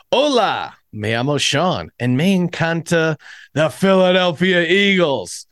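a quick Spanish greeting; Spanish phrase. Shown as a demonstration. Host showing off Babbel Spanish to listeners, bright Spanish greeting. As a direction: say it in Spanish, upbeat. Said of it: "I just said".

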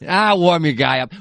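mock slurred movie-fighter accent; Hardy. Podcaster mimicking an actor in a fight film, mock accent. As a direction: imitate a muddled tough-guy accent. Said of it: "What accent is he doing in that".

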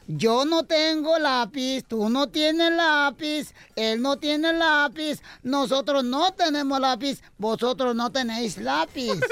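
slow, measured conjugation; teacher drilling. Acted. Teacher correcting the boy with a slow drill. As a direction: spell it out like a schoolteacher.

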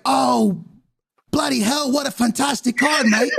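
high, hammed-up English accent; bad English accent. Dad delighted by the kid's news in bad English accent. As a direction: exclaim in an overblown fake English accent. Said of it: "what do you mean my accent's so bad".

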